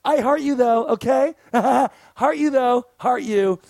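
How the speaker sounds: mock-sweet, talking down; a smug bartender's sugary put-down; condescending. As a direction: patronize him with fake affection. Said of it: "real condescendingly goes".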